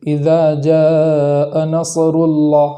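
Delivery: نصر Allah read slowly with a vowel after ص; slow demo, ص of نصر voiced as a moving letter; wrong vowel on sad. Shown as a demonstration. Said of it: "صاد کو متحرک پڑھ دیتے ہیں".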